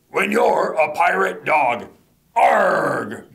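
slow, hammed-up pirate chant; pirate refrain.

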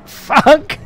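sudden loud swear at a crash; real shout. Real, not acted. Streamer crashing into a friend's car, sudden loud shout. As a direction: blurt it out in shock.

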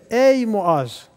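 mild retold call, drawn-out first word. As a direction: call to a companion, lightly acted. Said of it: "diye seslenir".

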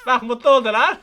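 laughing with relief; relieved happy laugh. Real, not acted. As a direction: laugh it out, pleased. Baby calms, he laughs.

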